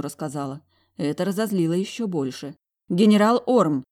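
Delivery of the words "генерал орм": loud indignant cry of his title; furious call of his name; angry outburst. Acted. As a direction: snap his title at him in fury. Heroine shouts at general.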